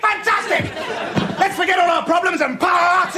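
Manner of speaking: sarcastic whoop about forgetting their problems; mock party cheer. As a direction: cheer it like a fake party animal.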